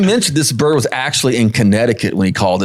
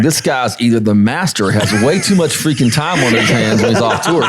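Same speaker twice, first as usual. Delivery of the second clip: laughing. Real, not acted. Laughing at turkey trick.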